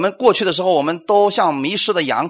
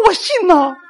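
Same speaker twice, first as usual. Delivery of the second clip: defensive reply; 13 semitones higher than usual. Pretend. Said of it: "他说".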